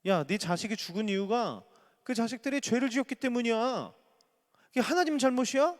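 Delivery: high, rising harsh accusation; a friend blaming a grieving father. Acted. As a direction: throw the blame at him coldly. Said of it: "자식을 잃은 부모에게 이게 할 말입니까?".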